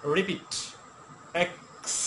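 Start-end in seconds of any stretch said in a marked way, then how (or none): 1.3-1.9 "এক্স" with a little খ in the ক; slight kh sound. Shown as a demonstration. Teacher asking learners to repeat X, "এক্স" with slight kh. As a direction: model "এক্স" with k leaning to kh and a long s. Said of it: "কিছুটা twenty percent খ আসবে".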